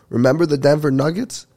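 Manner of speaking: imitated yelling, not full volume; retold yell. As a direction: call it out like a random DJ announcement. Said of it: "And he just yells out".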